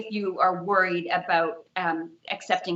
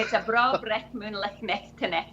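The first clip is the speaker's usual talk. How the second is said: thick Scottish accent; 3 semitones higher than usual. Shown as a demonstration. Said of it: "I can put on the thick Scottish accent".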